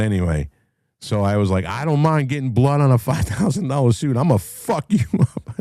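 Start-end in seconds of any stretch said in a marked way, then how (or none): 1.6-5.5 high, mock-furious yell breaking into laughter; high-pitched angry holler, played for laughs; retold screaming. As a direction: re-enact a screamed threat, amused. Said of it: "I started screaming at him".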